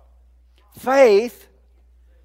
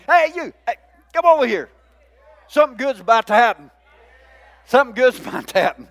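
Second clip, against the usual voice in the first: excited calling; faster than usual. Acted. Jesus calling, voiced excitedly.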